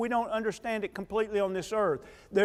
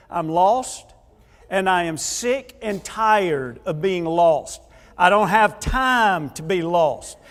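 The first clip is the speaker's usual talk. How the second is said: slow, louder, fed-up complaint about being lost; frustrated venting; 5 dB louder, slower than usual. Retold or imitated. Husband vents to his wife on the phone, slow and fed up. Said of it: "I was kind of venting to her".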